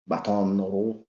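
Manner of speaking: attempted French pronunciation; French-style vowels, French r; French accent. Shown as a demonstration. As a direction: try it in a rough French accent. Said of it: "how to do the French accent".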